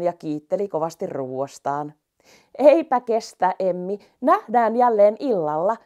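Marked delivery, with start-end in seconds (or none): 2.6-5.8 cheery call. Acted. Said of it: "se hihkaisi".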